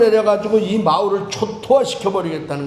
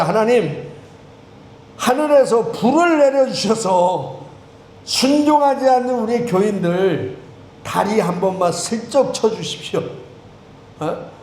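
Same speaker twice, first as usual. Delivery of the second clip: mock prayer; 2 semitones higher than usual. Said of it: "이런 기도하고 싶을 마음이요".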